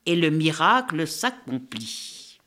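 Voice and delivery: put-on lively read-aloud for children, voices the birds; story narration. A narrator's reading. Critic reading the book to young listeners, animated storytelling. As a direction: tell the tale with animated expression.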